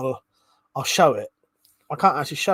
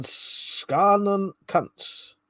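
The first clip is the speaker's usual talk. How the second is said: drawn-out, higher-pitched Australian slang; Australian accent; 6 semitones higher, much slower than usual. Acted. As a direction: stretch it out in an Aussie accent. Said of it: "Say that in an Australian accent".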